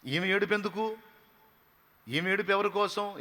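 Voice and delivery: normal talking voice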